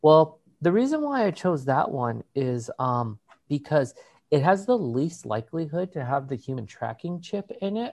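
imitating an earnest explanation; straight-faced mock seriousness; serious, matter-of-fact. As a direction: state it as simple fact, dropping off softly. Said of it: "with a very serious, like, matter-of-fact manner".

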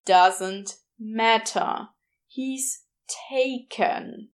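very slow, dug-in insistence; stubborn repeat. Acted. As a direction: say it slowly as if ending the talk. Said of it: "Crowley repeated".

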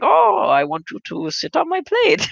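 high, put-on voice of a Japanese waitress; flirty falsetto imitation of the lady; mock waitress voice. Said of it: "he's like".

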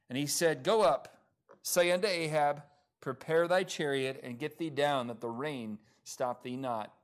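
measured Bible reading aloud with falling phrase ends; scripture reading. Acted. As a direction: read the verse out clearly to a congregation. Reads scripture to congregation.

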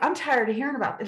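mild, fast grumble of complaint; a touch of irritation; mildly fed up. Retold or imitated. Talking back to God, mildly fed up. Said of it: "I get mad. I'm like".

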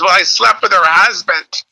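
high-pitched imitated mom confession; confessing mom. Comic retells mom confessing affair, high mom voice. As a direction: pitch it up as a mother blurting a secret.

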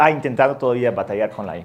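ordinary talk, nothing marked

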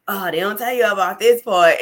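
half-laughing quoted complaint; laughing mock complaint. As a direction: toss out an imitated grumble, amused. Quoting a downs-of-business complaint, laughing.

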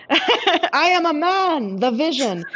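high, slow, drawn-out robot declaration; mock-grand android announcing himself; imitating the Vision's stiff, slow proclamation. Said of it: "screams, like, every issue".

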